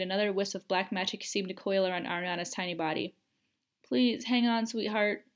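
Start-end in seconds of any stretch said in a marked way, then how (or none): 3.8-5.2 urgent, slightly raised plea; pleading. Acted. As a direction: beg her daughter to hold on while crawling to her. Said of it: "Kendra pleaded".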